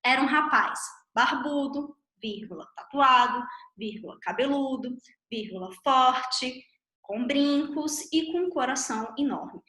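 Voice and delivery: each "vírgula" spoken aloud between "barbudo", "tatuado" and "cabeludo"; reading the commas aloud. Shown as a demonstration. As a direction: say the word "vírgula" between each item in the list. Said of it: "aqui a gente tem um exemplo".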